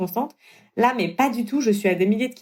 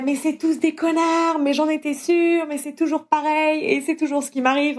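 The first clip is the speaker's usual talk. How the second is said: mock outraged yell; 7 semitones higher than usual. Ranting to friends in the bar toilets, mock outraged and high. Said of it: "Et là, je hurle".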